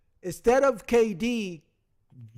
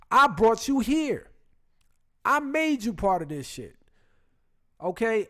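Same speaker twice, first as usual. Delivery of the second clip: raised, heated rant as Draymond; angry snap. Retold or imitated. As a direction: Draymond snapping back at the teammate, heated. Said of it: "He snaps".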